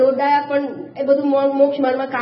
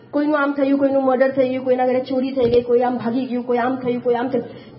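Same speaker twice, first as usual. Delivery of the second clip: run-on recital that fades as it goes; droning list; 5 semitones lower than usual. Acted. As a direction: reel off the bad news on one low note. Rattling off a list of bad news.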